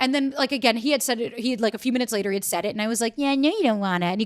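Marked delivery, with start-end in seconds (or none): 3.2-4.1 put-on babyish voice, higher pitched. Retelling a comment made to a boyfriend during a tiff: baby talk. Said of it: "it's enough of the baby talk".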